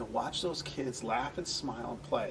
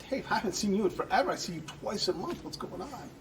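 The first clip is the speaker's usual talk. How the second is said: cheery greeting; 6 semitones higher than usual. Retold or imitated. Manager happily greeting a regular he hasn't seen lately. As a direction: greet a regular brightly and quickly. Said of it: "and I'm like".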